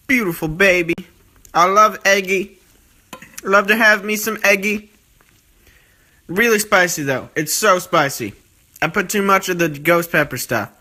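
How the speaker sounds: put-on folksy southern accent over the food. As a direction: slip into a hammed-up southern accent. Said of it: "I don't know why I'm doing this accent".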